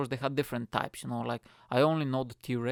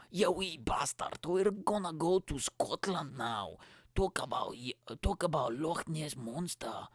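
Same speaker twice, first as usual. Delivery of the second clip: slow, swooping fake Scottish accent; attempted Scottish accent; 2 semitones higher than usual. Podcaster introducing Loch Ness talk, badly faked Scottish accent. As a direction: drag it out in bad Scottish, part Australian. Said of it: "the accent that I'm trying to do is".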